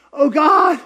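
mock panic. Panicking before meeting.

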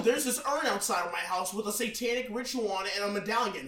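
high, clueless singsong of a doomed movie character; hammed-up scary-movie dumb guy voice; mocking horror-movie victim. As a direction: play the naive fool inviting the demon in. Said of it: "every other white person that's been in every scary movie".

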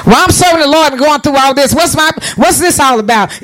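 mildly exasperated complaint; mock irritation. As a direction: play a believer grumbling at their trials.

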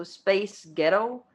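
put-on name of a pop group member said slowly in an American accent, sounding like "space ghetto". Shown as a demonstration. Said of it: "in an American accent".

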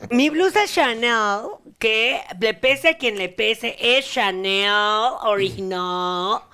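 proud boast. Acted.

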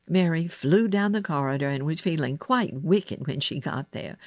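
ordinary delivery, nothing marked

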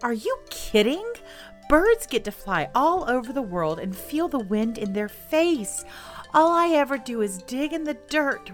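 a pig complaining it's unfair; indignant pig. Acted. Tracy protests to spirit.

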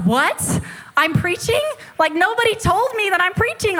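high-pitched incredulous protest; retold disbelief. Visitor told she must preach to the village, high incredulous protest. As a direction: act out being caught totally off guard.

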